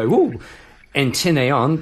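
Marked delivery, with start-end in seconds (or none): 0.0-0.4 mock interest. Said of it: "Those people who are into rugby go".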